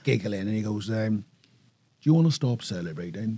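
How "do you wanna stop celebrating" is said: put-on Welsh accent. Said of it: "dodgy Welsh accent alert".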